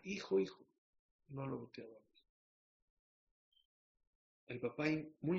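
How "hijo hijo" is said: mildly raised distant call; calling from afar. Acted. Father up high calls down to his passing son, calling from afar. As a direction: call out to him, pitched up. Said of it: "de a lejos decía".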